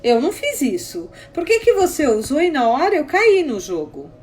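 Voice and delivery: emphatic, indignant challenge; acted-out quarrel with mild heat; retold confrontation. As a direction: argue back, demanding an explanation.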